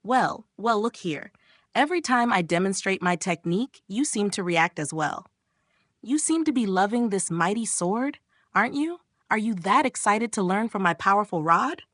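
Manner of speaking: mildly teasing, questions lifting at the end; understated mock teasing. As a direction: needle playfully, as a cocky character. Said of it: "He decides to tease her".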